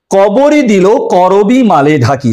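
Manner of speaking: slow, measured reading of a verse line; poem recitation. Shown as a demonstration. Teacher reciting an example verse to students, slow and measured. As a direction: read the example verse deliberately slowly. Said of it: "পাঁচ নম্বর উদাহরণ".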